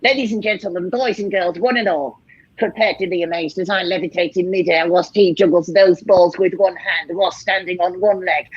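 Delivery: grand showman introduction, unhurried; showman announcement. Pretend. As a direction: announce the finale like a ringmaster. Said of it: "Introduce it".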